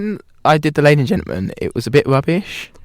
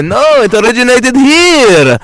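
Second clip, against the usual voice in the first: mock argument; 10 semitones higher, 9 dB louder, slower than usual. Mock Middle Eastern argument.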